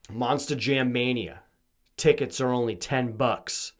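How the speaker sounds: slow booming announcer voice; monster truck ad. Pretend. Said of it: "Those are always the funny commercials".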